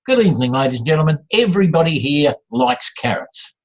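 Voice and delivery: assured opening statement to a room; confident assumption. Acted. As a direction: declare it as fact, leaving no question. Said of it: "you make the assumption and you say".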